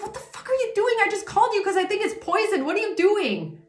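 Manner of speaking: high, half-laughing what are you doing; mock disbelief. Collective watching the officer sniff the object, high laughing disbelief. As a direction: squeal it in shocked disbelief, laughing. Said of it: "And you're like".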